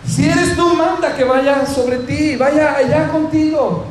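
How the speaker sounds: regained courage. Acted. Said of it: "Recobró el ánimo".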